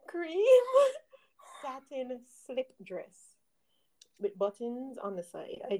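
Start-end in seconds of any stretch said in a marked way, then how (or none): 0.1-3.3 laughing through the words; slow, laughing retake. Real, not acted. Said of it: "Let's, let's try that one again".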